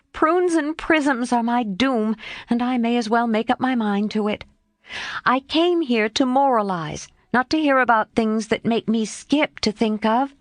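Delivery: a girl resigning herself, lightly voiced; spirited girl voice. Jo voiced by narrator.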